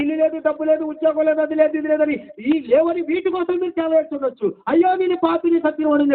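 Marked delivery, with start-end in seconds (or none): 4.7-6.1 higher, pleading sinner's lament; sinner's cry. Retold or imitated. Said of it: "ఎప్పుడైనా ఏడ్చారా". (పాపి వేడుకోలు, ఎత్తైన స్వరంతో)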